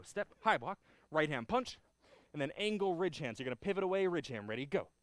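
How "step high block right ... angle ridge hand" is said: loud barked drill calls; sharp martial arts commands. Shown as a demonstration. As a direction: call each move crisp and loud. Calling taekwondo moves.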